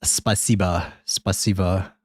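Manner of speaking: warming up a Russian accent. Shown as a demonstration. Streamer finding the accent before the joke, amateur Russian accent. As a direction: practise the Russian word in a rough accent. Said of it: "how to do a Russian accent".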